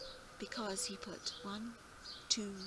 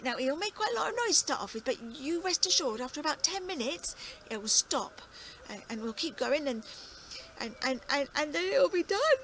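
put-on old farmer explaining; 2 semitones higher, 6 dB louder than usual. Farmer instructs friends.

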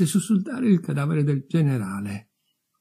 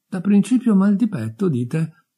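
gentle, higher questioning voice; delicate interjection; 8 semitones higher, 4 dB louder than usual. A narrator's reading. Clerk tries to put the newcomer at ease, delicately. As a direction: step in tactfully. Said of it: "Si intromise con delicatezza l'impiegato".

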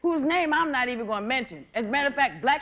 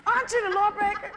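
mock indignant; 5 semitones higher, faster than usual. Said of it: "I said".

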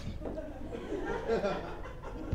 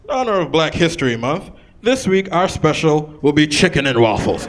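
sign read out; 6 dB louder than usual. Retold or imitated. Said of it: "it'll read out".

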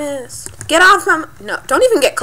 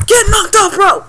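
loud, high triumphant taunt; mock angry taunt; 7 semitones higher, 5 dB louder than usual. Player knocking a bro off the mushroom, loud taunting yell. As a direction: holler it at your rival, hammed up.

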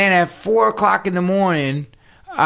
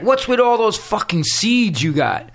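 retold cursing; 5 semitones higher than usual. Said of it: "he's cursing at me".

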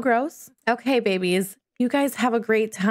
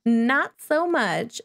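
slow, drawn-out echo through a laugh; laughing repeat; 3 semitones higher, much slower than usual. Shown as a demonstration. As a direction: repeat it slowly, chuckling at the baby.

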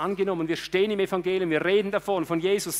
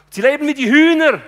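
much higher and louder, scoffing; scornful outburst; 9 semitones higher, 13 dB louder than usual. Acted. Preacher scolding God's sons who live like chickens, loud scorn. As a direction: throw out the scorn at the congregation.

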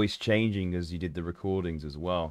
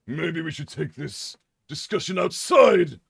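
slow, higher, louder threat; menacing challenge; 7 semitones higher, 4 dB louder, slower than usual. Pretend. Character challenging the other to step outside, menacing. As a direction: invite him outside to fight.

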